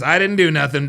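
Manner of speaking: mocking quote. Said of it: "Oh, there it is".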